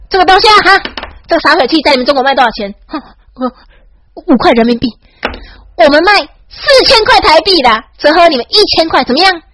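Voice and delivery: flaunt the price at them; mock taunt. Taunting mainland tourists about prices. (向大陆游客炫耀价格，语调高亢)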